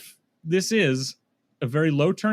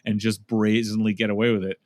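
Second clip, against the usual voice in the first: much lower, conspiratorial mock villain voice; scheming conservative justices; 7 semitones lower than usual. Justices gloating over a stolen election, low mock-villain voice. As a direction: drop the voice low like a plotter gloating over the loot. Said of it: "huddle together with their fingers steepled going".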